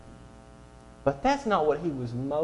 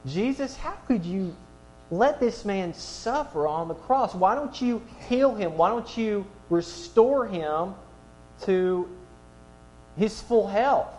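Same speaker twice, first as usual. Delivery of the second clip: indignant complaint; 5 semitones higher than usual. Pretend. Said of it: "and say".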